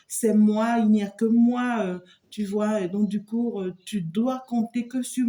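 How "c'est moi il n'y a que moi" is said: loud, self-important mock boast; arrogant boast. Reader mimics the arrogant man in the cards, loud boast. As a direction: puff up and claim it all for yourself. Voicing an arrogant, imposing person.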